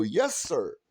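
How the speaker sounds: mock subservient. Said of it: "You smile and go".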